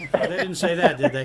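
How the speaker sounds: loud and laughing through the words; host chuckling at his own joke. Real, not acted. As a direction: tease the caller while still laughing. Host teasing the caller about the quote.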